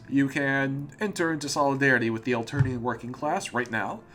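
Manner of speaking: put-on a light touch of Russian accent; half-slipping into a Russian lilt. Foster hands the player a shovel, faint Russian accent. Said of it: "I'm slipping into Russian".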